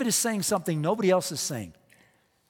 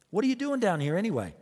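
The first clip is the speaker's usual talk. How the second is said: quick, higher-pitched challenge; mock demanding; 4 semitones higher, faster than usual. Oldest brother confronting David on the battlefield, mildly demanding. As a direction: demand it like an irked older brother, lightly acted. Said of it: "he demanded".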